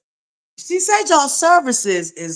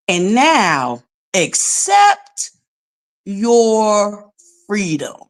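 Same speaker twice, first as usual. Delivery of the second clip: slow; much slower than usual. Shown as a demonstration. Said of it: "read it for you slow".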